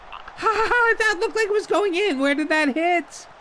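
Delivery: high, laughing near miss; laughing disbelief. Real, not acted. Gamer laughing at his own near miss, high pitched. Shot nearly goes in.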